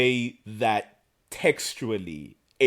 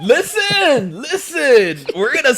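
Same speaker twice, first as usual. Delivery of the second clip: laughing; 13 semitones higher, 7 dB louder than usual. Real, not acted. Laughing while protesting.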